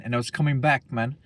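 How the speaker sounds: lightly put-on British accent; jokey, half-hearted British voice; mock British accent. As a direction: retell it with a hint of British. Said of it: "I look British, bro. Hey, bruv".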